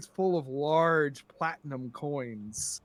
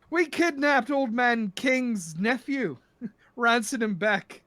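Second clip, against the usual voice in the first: higher, slow boastful Irish brogue; Irish accent; 5 semitones higher, slower than usual. Acted. Drunk pirate bragging about a kidnapping, Irish accent. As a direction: crow it in an Irish accent, laughing. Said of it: "how bad my Irish accent is".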